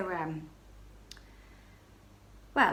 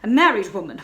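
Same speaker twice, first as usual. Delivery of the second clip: high, loud, desperate begging; frantic pleading; 5 semitones higher, 7 dB louder than usual. Acted. Baroness pleading with the stranger at the door, frantic. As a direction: beg him to leave, flustered and scared. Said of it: "I stammered, completely beside myself".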